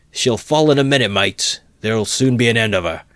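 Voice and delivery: high, loud eager cheer; admiring shout. A narrator's reading. Admiring spectator to his mates, eager shout. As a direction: cheer the beating on. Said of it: "said an admiring spectator".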